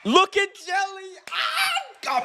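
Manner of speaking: cracking up at the screen; high laughing exclaim. Real, not acted. Streamer cracking up watching a singer. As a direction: squeal it out through laughter.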